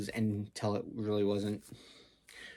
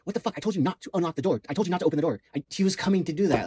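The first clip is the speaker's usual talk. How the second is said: Ashwin yelling; 6 semitones higher, much faster than usual. Retold or imitated. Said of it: "Ashwin's telling me".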